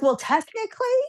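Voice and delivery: high-pitched pedantic correction; acted know-it-all geek; geeky rambling. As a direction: correct them like a comic nerd. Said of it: "she starts going on".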